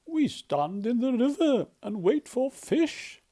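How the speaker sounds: lightly voiced bird character; a touch of a proud heron. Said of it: "said Heron".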